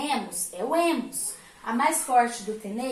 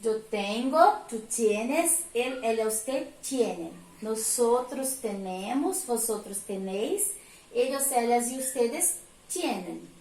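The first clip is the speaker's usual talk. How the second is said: conjugation drill. Shown as a demonstration. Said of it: "Vamos conjugar, então, tener?".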